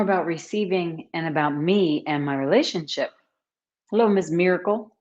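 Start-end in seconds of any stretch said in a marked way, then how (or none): 3.9-5.0 "Hello, Ms. Miracle" with a light Texan twang; Texas drawl. Shown as a demonstration. Greeting a viewer the Texas way, light Texan twang. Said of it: "That's how they say it in Texas".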